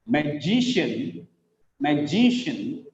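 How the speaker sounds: slow "magician", ma-JI-shun; stress on second syllable. Shown as a demonstration. Teacher giving an example, "magician" slowly stressed on JI. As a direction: lengthen JI in "magician". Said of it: "second syllable is stressed".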